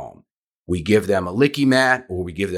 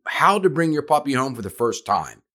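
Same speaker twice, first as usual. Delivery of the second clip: excited; 5 semitones higher than usual. Real, not acted. Continues excited praise.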